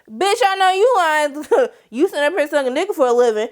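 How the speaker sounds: high laughing mockery; laughing sass. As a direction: laugh while calling her out. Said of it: "She was like".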